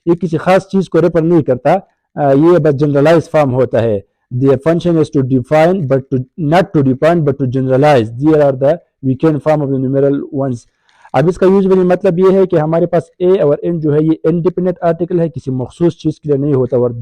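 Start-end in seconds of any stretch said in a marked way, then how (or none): 4.4-10.5 reads the English definition slowly, word by word; slow textbook reading. Shown as a demonstration. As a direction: dictate it from the book.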